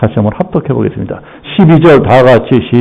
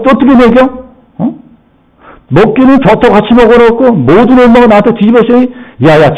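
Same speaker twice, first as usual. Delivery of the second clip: higher, rising scornful nagging; wife scolding husband; 7 semitones higher than usual. Acted. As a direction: needle him with contempt. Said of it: "남편을 원망하는 겁니다". (남편을 비꼬며 쏘아붙이는 아내)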